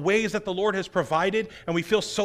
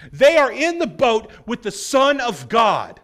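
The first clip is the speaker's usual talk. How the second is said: preaching shout; 3 semitones higher, 8 dB louder, slower than usual. Real, not acted. Preacher exclaims at disciples' blindness.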